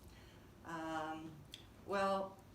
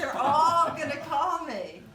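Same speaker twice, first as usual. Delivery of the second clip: laughing; 10 semitones higher, 15 dB louder than usual. Retold or imitated. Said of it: "Oh, yeah, that's good".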